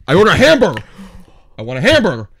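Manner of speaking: mock-indignant, voice swooping on hamburger; indignant insistence. Customer complains at the counter about his order, indignant. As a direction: insist crossly, as a retold complaint.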